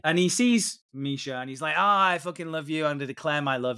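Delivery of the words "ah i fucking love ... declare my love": mock drunk declaration. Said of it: "He does the stupid drunk thing".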